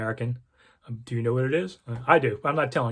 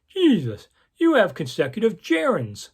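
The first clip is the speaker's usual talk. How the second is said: mock exasperated editor; 6 semitones higher than usual. Editor calls reporter at camp, exasperated scolding. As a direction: scoff at the grammar mistake like a grumpy editor.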